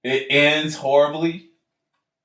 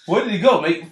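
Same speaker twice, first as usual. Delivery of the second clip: put-on Australian cop accent, lightly done and higher; mock Australian accent; 7 semitones higher than usual. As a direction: play a puzzled Australian cop. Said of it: "he's an Australian cop".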